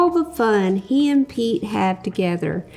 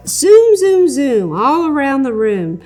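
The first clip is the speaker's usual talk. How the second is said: playful zoom; 6 dB louder than usual. Acted. Pete playing with the truck, loud and playful. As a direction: play the toy truck racing.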